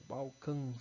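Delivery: "Balcãs" with a nasal final ã; stretched "Balcãs", nasal A before the S; nasalized vowel. Shown as a demonstration. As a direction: let the last vowel of "Balcãs" ring through the nose. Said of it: "ele vai indicar a nasalização da vogal".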